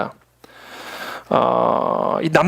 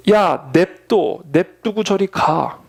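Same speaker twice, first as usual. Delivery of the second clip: slow, dragged-out brush-off from an irritated father; annoyed dismissal; much slower than usual. Retold or imitated. Father irritably shooing his son from the gate, slow and dismissive. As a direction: drawl it out slowly like a fed-up father waving the kid off.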